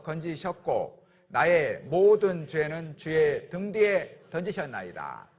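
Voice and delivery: slow, solemn Bible reading; scripture reading. Acted. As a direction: read the verse slowly and solemnly. (천천히 엄숙하게 성경 낭독)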